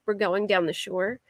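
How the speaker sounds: "We're going down the shore" with Philly ow; "down the shore", Philadelphia vowels. Shown as a demonstration. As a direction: say "down the shore" like a local heading to the beach. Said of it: "So we say".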